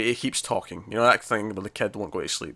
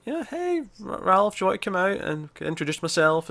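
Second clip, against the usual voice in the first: imitated gentle coaxing; 8 semitones higher than usual. Babysitter to the boy hiding in the bathroom, imitated coaxing. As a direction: lightly mimic someone luring a shy kid out.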